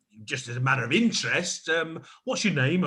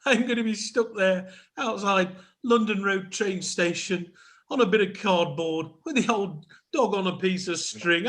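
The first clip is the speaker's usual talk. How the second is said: hammed-up wailing; 5 semitones higher than usual. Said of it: "stop your wailing".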